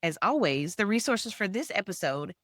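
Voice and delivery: polished host sign-off, evenly projected; scripted announcer-like delivery, each platform set apart; podcast outro read. Acted. Host thanking listeners and closing the show, scripted read.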